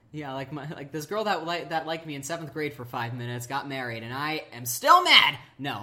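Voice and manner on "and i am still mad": suddenly loud, playful protest; mock outrage. Friend joking about an old grudge, mock outraged. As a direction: blurt it out in mock fury.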